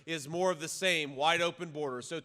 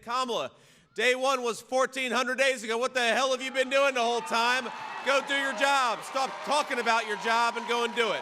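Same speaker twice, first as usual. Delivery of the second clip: loud, higher, fed-up scolding; exasperated shout at Kamala; 6 semitones higher, 7 dB louder than usual. Retold or imitated. Crowd voice telling Kamala to do her job, shouting angrily. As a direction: give her a furious dressing-down. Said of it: "all of us with common sense are saying".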